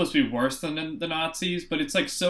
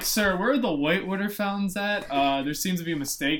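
a higher, earnest complaint, laughing at the end; mock earnest Cap; 4 semitones higher than usual. Cap to the staff, mock earnest and high. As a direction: play the baffled gentleman reporting a mistake.

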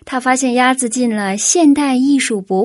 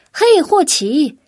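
slow, higher "嘿，霍奇"; calling down the phone; 6 semitones higher, 3 dB louder, slower than usual. A narrator's reading. Dodds calls Hodge on the phone, eager call. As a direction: call out happily down the line. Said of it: "多兹冲着听筒喊道".

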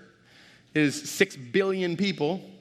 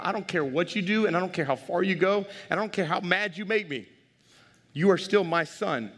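emphatic fatherly insistence, raised pitch; father to sons; 4 semitones higher than usual. Retold or imitated. Father telling his boys they are still his, emphatic. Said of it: "I tell that to my boys".

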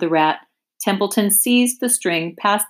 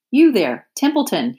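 higher, louder call across the yard; 6 semitones higher, 3 dB louder than usual. Acted. Wilbur calling the rat from his yard, loud. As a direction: call to him from a distance. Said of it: "he called".

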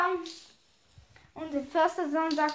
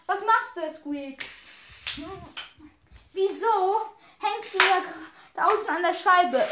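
mildly annoyed questioning, slightly raised; 3 semitones higher than usual. Acted. Pam asks Squeak why he hangs outside, mildly annoyed. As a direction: ask with a touch of annoyance.

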